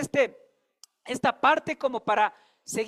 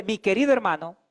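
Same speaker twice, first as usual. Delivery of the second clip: higher, louder, slow pleading to a brother; slow, raised plea: stop fighting God; preaching exhortation; 6 semitones higher, 6 dB louder than usual. Shown as a demonstration. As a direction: urge the person beside you, slowly and forcefully. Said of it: "Dígale".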